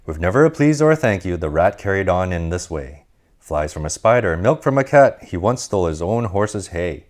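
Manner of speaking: lively read-aloud storytelling voice; storybook narration. A narrator's reading. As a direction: read it like a bedtime picture book for kids.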